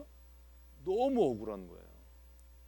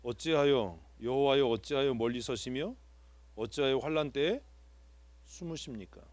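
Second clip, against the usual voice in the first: scripture reading. Shown as a demonstration. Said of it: "일 절에 써 있잖아요".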